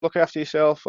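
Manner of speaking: breezy doorstep send-off, retold; cheery mock goodbye. Driver to customer on leaving, cheery goodbye.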